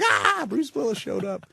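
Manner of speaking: high, slow gushing cheer; mock delighted crowd. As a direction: relish it like a starstruck crew. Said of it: "Everybody is just like".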